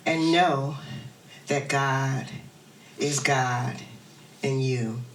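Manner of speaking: calm call to declare; guided affirmation. Real, not acted. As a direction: lead them gently with long pauses. Guides congregation to breathe and declare.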